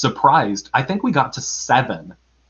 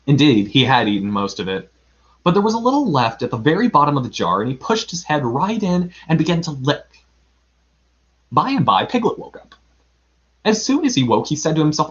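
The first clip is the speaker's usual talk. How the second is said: expressive read-aloud storytelling; story narration; 3 semitones higher, faster than usual. A narrator's reading. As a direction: tell it like a children's story. Reads a children's story aloud.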